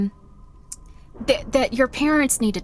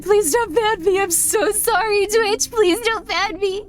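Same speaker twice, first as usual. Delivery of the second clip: pleading; 5 semitones higher than usual. Real, not acted. Begging Twitch after the panic fades.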